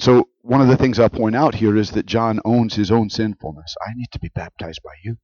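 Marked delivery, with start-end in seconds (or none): 3.8-5.2 much softer and lower; humble admission. Acted. John owning his sinfulness, quiet admission. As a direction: drop to a quiet, humble confession.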